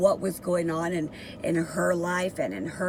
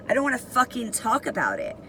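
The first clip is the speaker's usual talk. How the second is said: slightly raised, quick refusal; semi-nice with attitude; 4 semitones higher, faster than usual. Retold or imitated. Inmate's first answers to the guard, retold restrained attitude. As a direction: hold back, with some attitude. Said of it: "semi-nice, still had an attitude".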